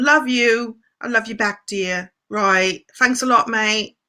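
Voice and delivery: playful, badly faked English accent; mock English accent. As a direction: thank them like a pretend Brit. Replying to English viewer, mock accent.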